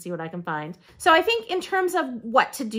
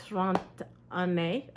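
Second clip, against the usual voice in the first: laughing; 2 semitones lower, 4 dB louder, much slower than usual. Real, not acted. Laughs at own rusty French.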